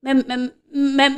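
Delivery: slow goat bleat me-me. A narrator's reading. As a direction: mimic a goat bleating slowly. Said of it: "మేకలు అంటున్న వరాలు". (మేక అరుపులా నెమ్మదిగా)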